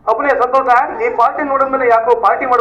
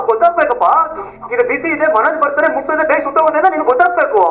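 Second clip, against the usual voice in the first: higher-pitched nagging lecture; indignant blaming; 4 semitones higher than usual. Acted. Husband blaming his wife for his burn, indignant. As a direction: insist that it is all their fault.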